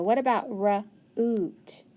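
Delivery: slow "root" with a long oo; slow, stretched. Shown as a demonstration. Teacher trying the oo sound for a child, slowly. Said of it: "It can say oo or uh".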